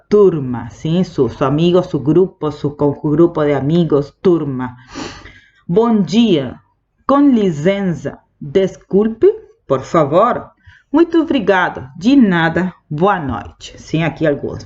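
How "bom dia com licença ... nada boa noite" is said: slow classroom demo of Portuguese greetings. Shown as a demonstration. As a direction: clear model Portuguese greetings for learners. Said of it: "teacher models Portuguese greetings".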